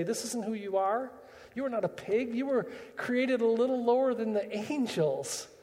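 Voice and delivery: a father lifting his son out of the pig slop; rising fatherly affirmation. Acted.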